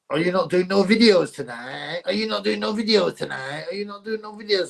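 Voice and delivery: imitating the real voice. Mimicking the streamer's real voice for the chat, lightly hammed. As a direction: echo the double negative in his voice, mildly hammed. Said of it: "when you hear the real voice".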